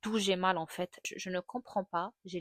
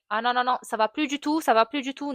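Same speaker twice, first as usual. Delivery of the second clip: reliving the pain; 4 semitones higher, 9 dB louder than usual. Retold or imitated. Reliving second push going wrong.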